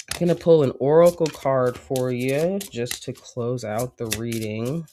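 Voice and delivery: congested, stuffy nose voice; blocked nose. Real, not acted. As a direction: speak through a head cold. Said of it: "Sorry if I have sounded congested".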